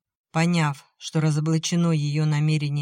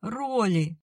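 sobbing; 6 semitones higher than usual. A narrator's reading. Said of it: "прорыдала она".

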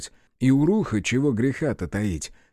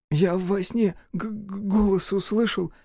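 put-on high child voice, slow and hushed; dreamy boy; 8 semitones higher, slower than usual. A narrator's reading. Boy Гришка tells Рух about the dream voice in a high hush. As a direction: recall it like a half-remembered dream.

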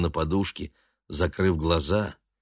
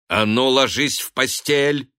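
stern order; 4 semitones higher than usual. A narrator's reading. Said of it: "строго приказала она".

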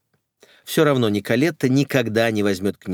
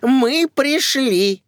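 high, louder, drawn-out call; high slow announcing call; 5 dB louder, much slower than usual. Acted. Guests announce themselves from the hallway, loud and high. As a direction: sing out the arrival.

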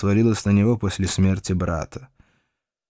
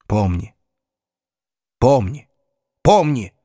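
distant flashback echo; 3 dB louder than usual. Acted. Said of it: "Слова эхом звучали в голове".

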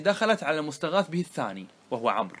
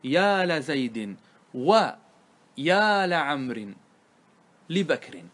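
slow, drawn-out example, each lam clear; slow demo; much slower than usual. Shown as a demonstration. Teacher reads the example slowly to students, slow demo. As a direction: spell out every syllable slowly. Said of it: "تقول مثلًا".

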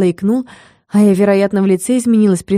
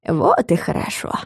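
softer, contented remark; pleased; 3 semitones lower, 5 dB quieter than usual. A narrator's reading. Fyara answering the witch's good news, contentedly. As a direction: say it with quiet satisfaction. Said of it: "довольно сообщила Фьяра".

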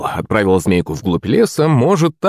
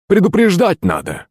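a touch of an indignant hiss, higher; 10 semitones higher than usual. A narrator's reading. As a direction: snap it out in a startled hiss. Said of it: "зашипел он".

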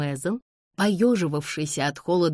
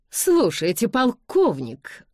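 higher, louder, drawn-out protest; indignant exclamation; 7 semitones higher, 4 dB louder, slower than usual. A narrator's reading. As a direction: call the colonel to order, stretching the words. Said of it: "воскликнула леди Ингрэм". (возмущённый возглас)

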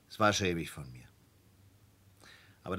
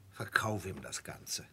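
urgent whisper; 7 dB quieter, slower than usual. Acted. Wife urging quietly aside.

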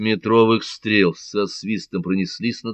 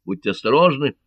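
higher, urgent warning; warning cry; 6 semitones higher, 4 dB louder than usual. A narrator's reading. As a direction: call out a caution to companions. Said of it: "крикнул каталонец".

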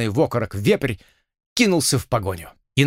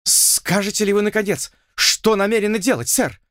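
higher, mock-furious lord; a hint of trembling anger, pitched up; menacing demand; 8 semitones higher than usual. A narrator's reading. Lord demands answers from Blood, mild mock fury. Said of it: "грозно потребовал ... дрожа от гнева".

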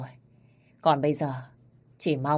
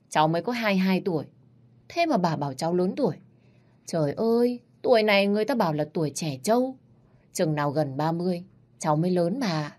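protesting granddaughter; 2 semitones higher than usual. Acted. Granddaughter protesting to grandma, mock indignant. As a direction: push back, exasperated.

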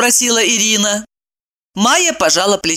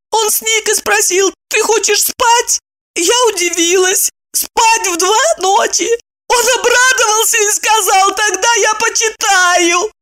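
put-on high, childish young woman; a silly girl explaining earnestly; naive girl voice. Maya explaining to friends, high naive girl voice.

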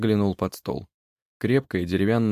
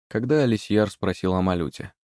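ordinary delivery, nothing marked

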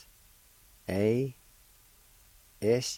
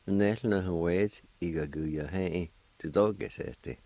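solemn closing prayer. Acted. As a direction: pray earnestly to close the program.

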